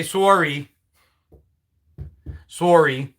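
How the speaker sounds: Canadian "sorry" with a rounded "sore-ee"; Canadian accent. Retold or imitated. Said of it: "It's my Canadian accent".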